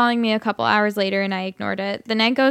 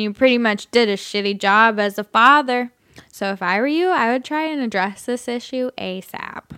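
put-on drunk voice. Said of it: "I'll just do my drunk voice".

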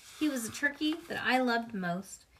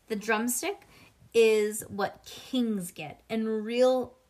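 proud; 6 dB louder, much slower than usual. Acted. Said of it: "he said real proud".

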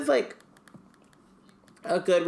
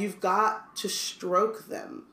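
slow Hagrid voice; 4 semitones higher, much slower than usual. Retold or imitated. Reading Hagrid's line aloud.

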